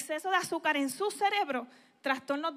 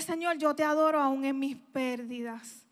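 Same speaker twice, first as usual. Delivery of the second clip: worshipful prayer; 2 semitones lower than usual. Retold or imitated.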